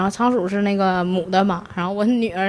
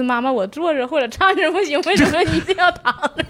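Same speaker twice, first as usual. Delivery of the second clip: higher, lightly voiced little girl, laughing; cute child voice; 8 semitones higher than usual. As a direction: imitate daughter's cute question. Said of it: "我闺女有时候也很萌". (模仿女儿撒娇发问)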